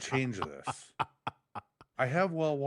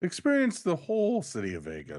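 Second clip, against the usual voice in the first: cracking up high mid-sentence; 7 semitones higher than usual. Real, not acted. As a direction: voice breaks on a high note. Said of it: "Why did your voice crack".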